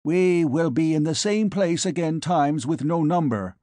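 polite alien, lifted pitch; alien ambassador voice. Acted. Alien replies.

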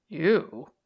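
a touch of a startled man; Tom's voice. Acted. Tom's startled one-word question.

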